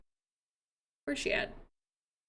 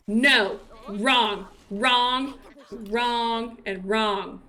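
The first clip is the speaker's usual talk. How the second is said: low, firm, repeated dismissal; mock denial; 4 semitones lower, much slower than usual. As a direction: shoot down every option, deadpan. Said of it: "you better not tell me".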